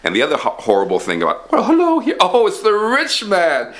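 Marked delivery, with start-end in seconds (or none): 1.5-3.7 greeting the rich man. Acted.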